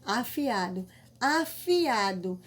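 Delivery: afiado said slowly, each vowel apart; slow demo word. Shown as a demonstration. Teacher to pupils, spelling out afiado slowly. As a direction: pull afiado apart so the hiato shows. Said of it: "Aqui, ó".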